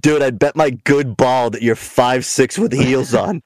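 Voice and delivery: laughing taunt. Retold or imitated. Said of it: "And I'm like".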